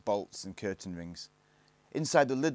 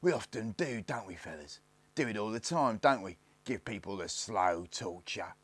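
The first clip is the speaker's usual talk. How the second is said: sneering gang leader; 2 semitones higher than usual. Acted. Lone Ranger threatens Barney with torture, lightly sneering. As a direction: menace the captive, stretching key words.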